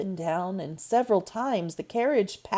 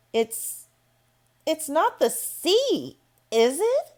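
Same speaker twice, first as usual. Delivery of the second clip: put-on anxious girl; 9 semitones higher than usual. Mary asks nervously in the dark.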